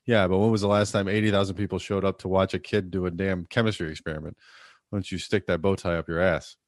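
loud quoted coach comeback; quoted coach retort. Retold or imitated. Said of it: "Coach Winters".

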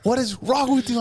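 high-pitched, incredulous mock tirade; hammed-up horrified scolding; mock outrage. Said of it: "I was like".

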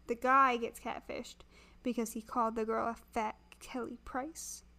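thick, muffled throat voice. Real, not acted. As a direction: sound muffled, like a sore throat. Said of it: "this muffled voice".

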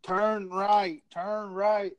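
imitated cop repeating an order, each word drawn out; ornery cop. Trooper repeating the order to a stubborn driver, ornery. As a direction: insist on it like an irritated trooper. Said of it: "Cop is getting fucking ornery".

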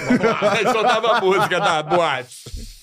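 high laughing hype. Acted. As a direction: laugh through it, hyped up. Hyping a dance contest.

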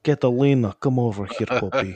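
lightly put-on Russian accent to a dog; playful mock Russian accent, calling the dog. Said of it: "I always talk to her with a Russian accent".

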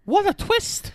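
high, theatrical announcer shout; mock dramatic twist call; dramatic exclamation. Joking about plot twist.

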